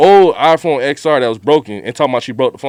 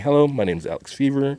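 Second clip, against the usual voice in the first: company white voice; 8 dB quieter than usual. Retold or imitated. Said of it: "putting on my company white voice".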